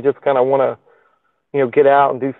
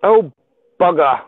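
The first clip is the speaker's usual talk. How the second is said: put-on botched Australian accent; 4 semitones higher, 3 dB louder than usual. Livestreamer practising an Aussie accent, sounding English instead. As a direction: attempt Aussie, land on English. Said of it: "that sounds English".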